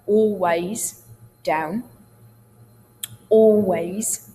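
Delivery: ALWAYS with open throat and hardly any l; slow, open-throated "aw-ways", "down"; yawned open vowels. Shown as a demonstration. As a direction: yawn into ALWAYS and DOWN. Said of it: "Sometimes you want to yawn".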